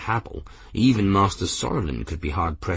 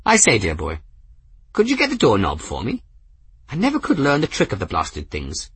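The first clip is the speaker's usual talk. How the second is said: put-on old man voice; 3 semitones higher than usual. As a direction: play a whimsical elderly wizard. Narrator voices Ferris.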